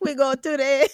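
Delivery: fake German accent pitched very high. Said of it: "That's my German accent".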